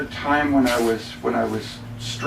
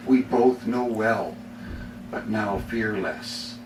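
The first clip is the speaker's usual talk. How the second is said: poem reading. Acted. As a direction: read it as a sincere, weighty poem. Reads poem The Fellow Traveler.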